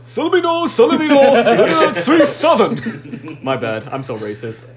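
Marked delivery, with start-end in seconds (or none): 0.0-3.4 booming hyped announcer, much higher and louder; fighting game announcer. Pretend. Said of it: "I gotta say it in, like, the announcer voice".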